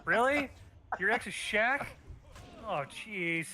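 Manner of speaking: mock outrage at competing with Shaq; exasperated disbelief. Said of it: "I'm like".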